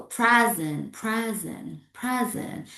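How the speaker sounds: "present" as a finished, falling word; falling intonation. Shown as a demonstration. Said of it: "Falling. For example".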